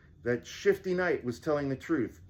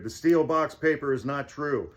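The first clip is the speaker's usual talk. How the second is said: loud declaration; 3 semitones higher, 5 dB louder than usual. Acted. Cash declares before knights.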